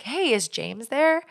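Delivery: mock-friendly phone voice, slow and lifted; pleasant caller. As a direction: ask sweetly, like a nice stranger phoning. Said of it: "a very pleasant, nice person".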